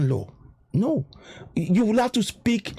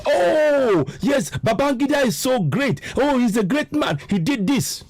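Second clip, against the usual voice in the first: mocking praise; 7 semitones higher than usual. Mocking Babangida's admirers.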